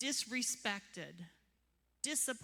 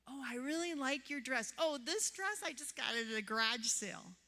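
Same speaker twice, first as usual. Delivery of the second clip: 1 mock compliment deflection; 3 semitones higher than usual.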